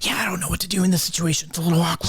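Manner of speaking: high, fast awkward reply; high fast uneasy voice, unsure what to do; Gray's reply. Acted. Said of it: "And Gray's like".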